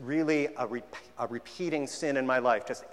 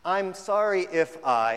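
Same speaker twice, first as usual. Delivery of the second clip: mock hollow apology; 4 semitones higher, 5 dB louder, slower than usual. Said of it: "walking down this particular garden path".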